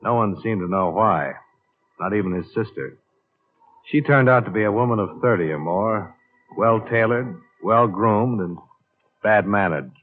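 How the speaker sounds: dry, matter-of-fact case narration over music; noir detective narration. A narrator's reading. Investigator recounting his case to the audience, dry noir narration. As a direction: report the case to the listener like an expense log.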